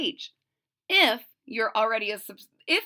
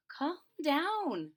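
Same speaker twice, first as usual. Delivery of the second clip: calm down; 5 semitones higher, 5 dB quieter than usual. Acted. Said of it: "she said".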